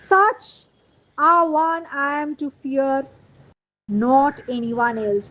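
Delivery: slow, deliberate recital with spaced phrases; measured play reading. Acted. Teacher reading Macbeth's lines to students, slow measured recital. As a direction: read it out slowly, phrase by phrase.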